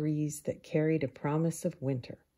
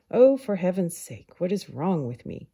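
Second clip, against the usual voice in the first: loud, fed-up sigh of frustration; louder exasperated cry; exasperated outburst; 4 dB louder than usual. Acted. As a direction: burst out at yourself, fed up. Ant frustrated with himself.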